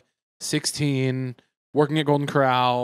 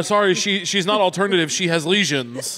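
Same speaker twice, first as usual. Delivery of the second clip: lightly voiced manager, pitched up at first; mock apologetic manager; 4 semitones higher, 3 dB louder than usual. Manager excusing bandaged host to customers, mock apologetic. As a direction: explain it to customers with comic insistence.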